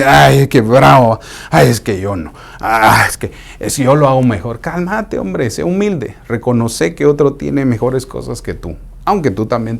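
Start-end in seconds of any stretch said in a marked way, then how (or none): 0.0-4.6 mock dismissive brag. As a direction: scoff at someone else's gift. Proud person dismissing another.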